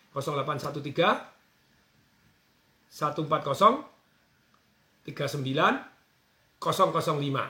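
slow, with pauses between digit groups; slowly. Shown as a demonstration. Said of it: "Saya ulangi pelan-pelan ya".

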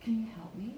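"can" small and quick; reduced CAN. Shown as a demonstration. Coach showing the small sound, "can" reduced. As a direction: slip lightly over "can" toward "help me". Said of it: "So one is small".

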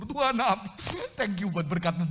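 loud, high burst of thanks to God; re-enacted thanksgiving. Preacher re-enacting his thanks to God for a transfer, exclaiming. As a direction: exclaim thanks, hammed up for the retelling.

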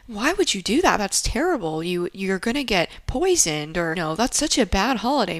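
mock-horrified kid lecture; exaggerated disapproval with swooping emphasis; alarmed scolding. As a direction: scold them as if it's awful, emphatic. Younger self scolding other kids.

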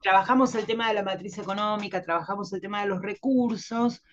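congested, with a cold; nasal voice. Real, not acted. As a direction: talk with a head cold. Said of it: "estoy resfriada todavía".

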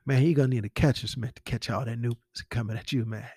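a light, barely shifted Terrence Howard voice, low-key; Terrence Howard impression. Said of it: "my terrible Terrence Howard impression".

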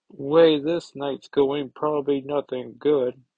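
lightly voiced gargoyle; gargoyle character. Gargoyle voiced in comic read-aloud.

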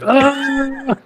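high, sustained mock scream; imitated meme scream. Imitating the Minecraft scream meme for friends, mock scream. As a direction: scream like the meme, without full volume. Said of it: "this random screaming of meme".

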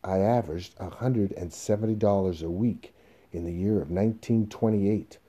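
desk-banging insistence; forceful, stubborn assertion; emphatic insistence. Acted. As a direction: hammer out the figures insistently. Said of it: "banging his hand on the desk".

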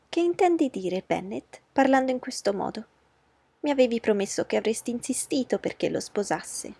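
high, pushy voice of a fussing mother; a flustered matron laying down the law; anxious mother. Acted. Mrs Bennet disappointed. (madre agitata, voce alta e insistente)

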